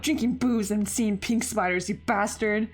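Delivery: put-on high, angry girl's tirade; angry scolding. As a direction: chew him out furiously. Alyssa chewing out Shurik.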